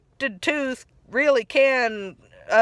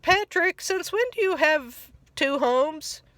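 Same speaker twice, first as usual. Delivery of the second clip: a skeptical friend, pitched up; Sandy imitated; 5 semitones higher than usual.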